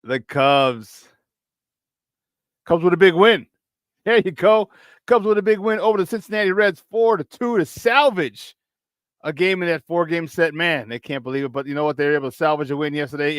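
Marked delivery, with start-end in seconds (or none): 2.7-10.5 put-on Chicago accent. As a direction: call the score like a Chicago fan. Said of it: "my Chicago accent".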